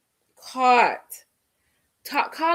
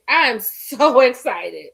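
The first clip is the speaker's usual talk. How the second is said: louder, slower, laughing mid-word; laughing excitement; 6 dB louder, slower than usual. Real, not acted. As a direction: let a laugh break through the excitement. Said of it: "I'm so excited".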